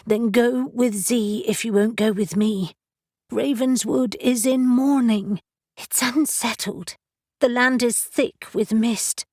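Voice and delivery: put-on a young woman pleading; worried young woman. Narrator voices Briar pleading.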